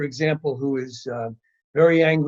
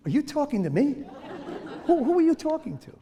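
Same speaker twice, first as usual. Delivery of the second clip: high, laughing, faster mock astonishment; mock disbelief; 11 semitones higher, 5 dB quieter, faster than usual. Teacher feigning shock at a rude child, high and laughing. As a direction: feign shock at being spoken to. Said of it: "I find myself looking around like this".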